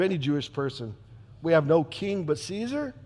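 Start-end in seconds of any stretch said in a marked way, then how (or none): 1.4-2.9 disbelieving, questioning "We have no king but Caesar?" with a rise; incredulous echo. Acted. Pilate echoing the crowd's words in disbelief. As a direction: repeat it, amazed. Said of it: "I never thought I'd hear those words".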